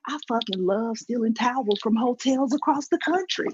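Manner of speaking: high-pitched mock confession of a passion; imitating excited man. Customer confessing his towel habit, mock excitement. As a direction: play him bubbling over with glee. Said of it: "he's vibrating, he's shaking, he's so excited".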